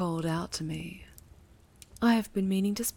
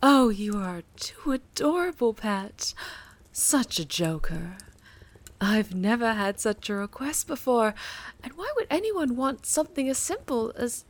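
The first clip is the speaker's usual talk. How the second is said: delighted gushing; 3 semitones higher, 4 dB louder than usual. Acted. Patron gushing, laughing off request.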